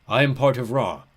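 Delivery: loud, solemn giant's declaration; depressed ram god. A narrator's reading. Ram god explains himself to travellers, depressed. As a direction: declare it as a mournful old god. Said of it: "He sounded horribly depressed".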